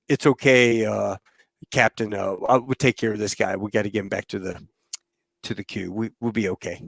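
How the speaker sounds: soft, low retold smoothing-over; mock reassurance. Bernie steering the duped man away, calming.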